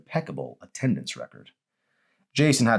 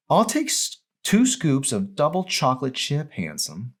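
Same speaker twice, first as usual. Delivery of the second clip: much higher, slow, teasing voice; flirty order; 9 semitones higher than usual. Acted. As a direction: purr the order at him. Mandy flirts.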